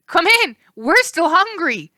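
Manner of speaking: high, loud monstrous horse; greedy beast calling; ravenous horse; hungry horse shout. A narrator's reading.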